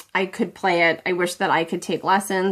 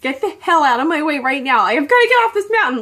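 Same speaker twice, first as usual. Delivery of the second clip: retold panic; 5 semitones higher, 5 dB louder, faster than usual. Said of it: "I'm telling my husband".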